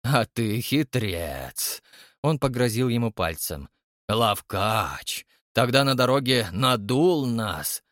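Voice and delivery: put-on sly old villain. Koshchei wags finger, mocking.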